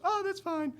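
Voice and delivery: very high mock female voice; high-pitched, put-on reply; imitated woman driver. Voicing the woman driver's breezy reply.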